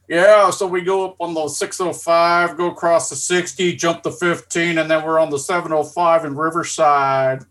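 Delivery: a hint of a SoCal local listing freeways; Californian impression. Ribbing friend mimics Californians giving freeway directions, light Californian accent. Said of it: "hearing the Californians".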